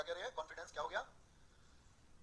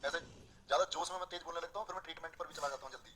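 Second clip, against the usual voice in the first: softer, lower voice to save the throat; quieter voice; 5 semitones lower, 10 dB quieter, faster than usual. Real, not acted. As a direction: dial it down, take it easy. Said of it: "मैं मंदा बोल लूं थोड़ा". (गला बचाते हुए धीमी नरम आवाज़)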